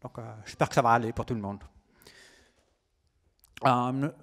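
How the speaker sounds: French with an American accent; American accent on every French word. Real, not acted. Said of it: "j'ai un accent américain".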